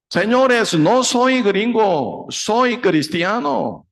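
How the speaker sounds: high, slow, insistent cry; pleading shout. Retold or imitated. Missionary begs the crowd, high slow shout. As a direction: hold the crowd back with a high slow plea. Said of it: "Él empezó a gritar".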